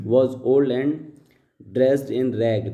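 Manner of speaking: slow, deliberate read-aloud of the paragraph; slow dictation reading. Shown as a demonstration. Teacher reading the paragraph aloud to students, slow and deliberate. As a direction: read each word out slowly for the class. Reads slowly.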